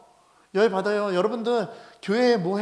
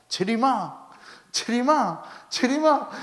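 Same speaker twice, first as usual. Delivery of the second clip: missionary calling out; 3 semitones higher, slower than usual. Retold or imitated. Missionary calling the son's name from the pulpit, rising. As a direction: call the boy like from the pulpit. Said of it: "강단에서요".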